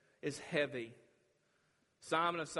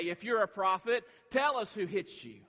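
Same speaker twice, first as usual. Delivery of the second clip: loud, high jeering challenge; mocking taunt; 7 semitones higher, 9 dB louder than usual. Soldiers mocking the blindfolded Jesus, jeering loudly. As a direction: throw it out as a taunt.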